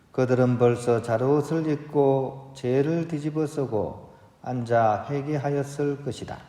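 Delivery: solemn, measured scripture proclamation; Gospel reading. Real, not acted. Priest reading Jesus' rebuke to the towns, solemn proclamation. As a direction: read it out evenly with formal phrase endings.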